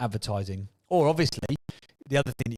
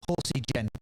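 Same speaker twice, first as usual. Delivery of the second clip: horse impression. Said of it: "That's my impression of a horse".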